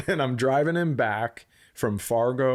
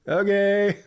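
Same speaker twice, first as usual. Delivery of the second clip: high, loud puzzled okay; a stunned, bewildered okay; baffled okay; 9 semitones higher, 5 dB louder than usual. Retold or imitated. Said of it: "I'm like".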